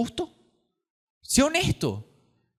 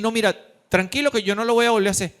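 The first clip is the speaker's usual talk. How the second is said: casual reassurance; 3 semitones higher, 3 dB louder, much faster than usual. Retold or imitated. Killer voiced reassuring victim's family.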